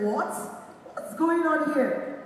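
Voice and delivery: high, loud and slow, what's going on here; amazed disbelief. Retold or imitated. Reacting to her mom's teasing, loud slow astonishment. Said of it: "I was like".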